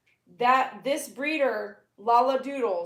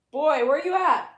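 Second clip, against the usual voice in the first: raised, louder call for a pet; 5 semitones higher, 6 dB louder than usual. Real, not acted. Owner looking for the dog, calling out. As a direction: holler for the dog.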